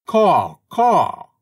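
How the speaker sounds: high, loud cawing crow; crow's caw. A narrator's reading. Crow answering the others, high cawing. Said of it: "But the crow said".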